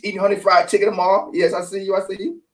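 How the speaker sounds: talking while smoking; cigarette in mouth. Real, not acted. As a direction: lips round a cigarette. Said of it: "Get that smoke up in you".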